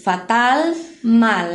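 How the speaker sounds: "Fatal" and "mal" each ending on a held L; clear final L. Shown as a demonstration. Teacher reminds class of the L, "Fatal, mal" with clear L. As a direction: land the tongue for the L in "Fatal" and "mal", no U. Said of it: "Lembrem-se do L".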